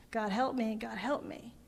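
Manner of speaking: soft, hushed repeat of the plea; prisoner's prayer echoed softly, a hushed sob; retold sobbing prayer. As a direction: let it sink to almost nothing. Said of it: "the sobbing".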